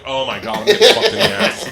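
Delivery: laughing panic, high and loud; panicked laughing. Retold or imitated. Telling the podcast crew his mock panic, laughing loudly. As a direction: blurt it out, cracking up in alarm. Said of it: "I'm like".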